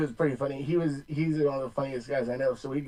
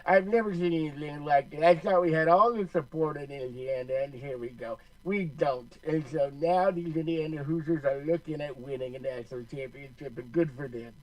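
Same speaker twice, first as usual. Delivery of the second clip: Lou Holtz impression. Shown as a demonstration. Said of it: "we want me to do that right now".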